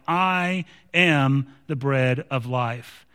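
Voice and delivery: slow and low, weighing each word; slow solemn close. Retold or imitated. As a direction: lay it down gently and slowly. Closing the quoted verse, solemn.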